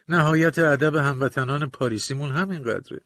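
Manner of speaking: usual speaking voice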